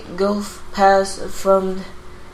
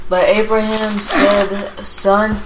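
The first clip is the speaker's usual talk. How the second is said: reading aloud more audibly; speaking up. Real, not acted. Student rereading scripture after teacher's prompt, speaking up. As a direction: speak up so the room hears. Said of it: "speak up so, uh, we can hear you".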